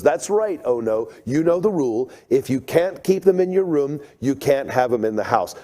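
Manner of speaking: a hint of a mom laying down the rule; unhappy mom. Mother scolds her son about lizards in the house, lightly stern. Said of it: "And she goes".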